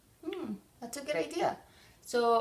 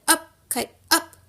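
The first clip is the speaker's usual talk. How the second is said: Up, kite, up! called out higher and louder; shouted; 6 semitones higher, 9 dB louder than usual. Acted. Toad calling to the kite in the meadow, shouting upward. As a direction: call Up, kite, up! to the sky. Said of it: "and he shouted".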